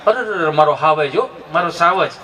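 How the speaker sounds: lightly voiced low parental coaxing; a hint of a proud, soothing parent; doting parent. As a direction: praise a fallen child, pitched low. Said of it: "આમ કપડાં ખખેરે".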